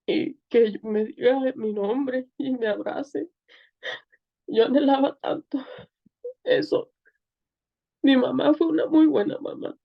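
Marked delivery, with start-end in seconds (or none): 0.1-6.9 crying. Real, not acted. Recalling longing for God's embrace.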